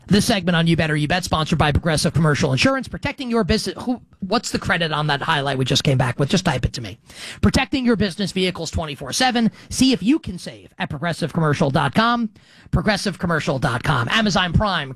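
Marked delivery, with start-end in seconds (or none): 0.1-3.8 ad read. Acted. Reads sponsor ad. 7.4-14.1 ad read. Acted. Reads sponsor ad.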